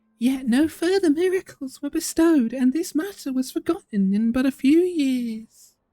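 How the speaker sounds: very high-pitched, slow, put-on voice. Quoting what Paimon just said, in Paimon voice. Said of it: "in my most Paimon-y voice possible".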